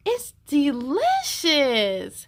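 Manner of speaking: slow, savouring delight; slow wonder at the taste. Acted. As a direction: stretch it out, amazed at the taste.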